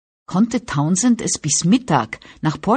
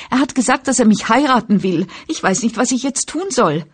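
put-on higher, louder girlish wail; high whine, helpless girl complaining; whining voice; 7 semitones higher, 4 dB louder than usual. A narrator's reading. Franny's voiced pleading.

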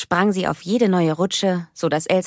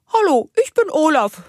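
deep snowman voice; 11 semitones higher, 5 dB louder than usual. Pretend. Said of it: "sprach sie mit tiefer Stimme, so als wäre sie der Schneemann".

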